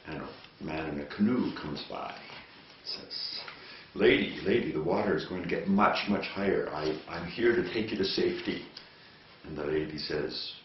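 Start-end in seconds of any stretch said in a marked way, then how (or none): 3.9-8.6 loud call up to the window from the water. Acted. Canoe man calls up to the stranded lady, loud. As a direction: raise your voice to reach the lady at the window.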